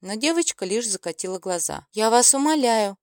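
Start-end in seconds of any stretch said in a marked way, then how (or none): 1.9-3.0 grimacing. A narrator's reading. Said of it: "скривилась она".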